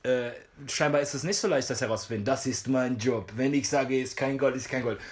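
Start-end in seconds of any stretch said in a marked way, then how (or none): 2.2-5.0 toothless Russian brawler. Retold or imitated. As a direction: lightly mimic a stubborn Russian fighter. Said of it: "ein zahnloser Russe, der kämpfen will". (leicht nachgeahmter zahnloser, kampflustiger Russe)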